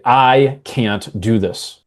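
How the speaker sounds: slow and weighty; firm, loud self-talk. Shown as a demonstration. Coach demos the loud inner voice, slow and heavy. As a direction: lean hard on every word. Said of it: "Those two things mean different things".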